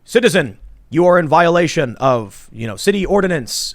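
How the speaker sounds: stiff robotic announcement; robot cop voice. Retold or imitated. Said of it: "and they're like".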